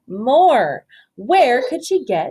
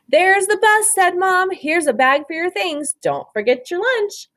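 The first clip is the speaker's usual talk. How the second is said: bright mom voice; 9 semitones higher than usual. Acted. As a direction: play the hurried mother, pitched up. Mom voiced in picture book.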